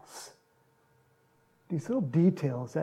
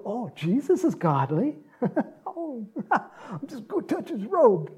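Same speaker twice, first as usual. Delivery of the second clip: laughing; 6 semitones higher than usual. Acted. Woman's voiced thought, laughing.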